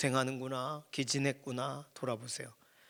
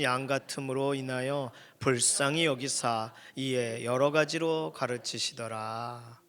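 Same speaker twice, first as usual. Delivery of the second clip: slow, measured Bible recitation; scripture reading; 3 dB louder, slower than usual. Acted. Preacher leading the congregation in reading the passage, measured recitation. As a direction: read the verse solemnly with drawn-out phrase endings.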